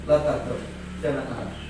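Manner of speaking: low, measured reply; calm answer. Retold or imitated. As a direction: answer the insistent questioner calmly. Retold calm answer to insistent companion. (menjawab tenang dengan nada rendah)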